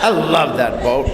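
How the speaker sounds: slow, laughing through the words; laughing ruefully. Real, not acted. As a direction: chuckle at your own loss. Rueful joke about lost boat.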